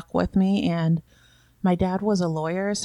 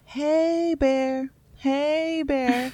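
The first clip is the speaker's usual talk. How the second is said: mild mock yell; 7 semitones higher, much slower than usual. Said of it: "to just yell the whole time".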